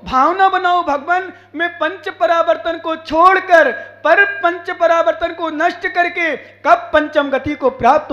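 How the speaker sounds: emphatic, exhorting sermon delivery; fervent preaching. Real, not acted. Preacher warning devotees against ill will toward monks, fervent exhortation. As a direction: drive each admonition home to the congregation.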